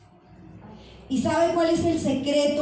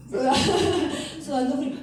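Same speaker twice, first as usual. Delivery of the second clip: laughing through the words; laughing at the memory; 3 semitones higher, much faster than usual. Real, not acted. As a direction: chuckle as you repeat it. Laughs retelling cold sweat.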